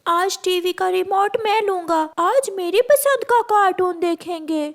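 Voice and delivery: put-on boy grabbing the remote; child boy voice. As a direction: play the eager little brother. Narrator voices Kuku.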